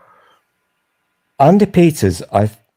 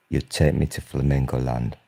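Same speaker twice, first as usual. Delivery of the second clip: put-on New York accent; 8 semitones lower, 6 dB quieter than usual. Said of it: "That was me doing my New York accent".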